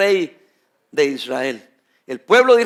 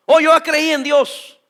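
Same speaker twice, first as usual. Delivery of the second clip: mock believer; 5 semitones higher, slower than usual. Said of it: "dice que son cristianos".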